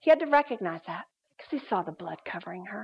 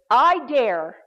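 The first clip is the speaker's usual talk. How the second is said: bold, defiant retort, each 'I dare' punched louder; rising strength; 5 dB louder than usual. Retold or imitated. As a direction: stand up to the demon, imitating her firm defiance. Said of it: "A rising of strength rises within her".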